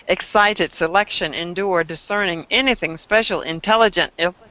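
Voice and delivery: over enunciating. Shown as a demonstration. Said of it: "I'm going to read them as quickly as I can, and I'm going to enunciate each one".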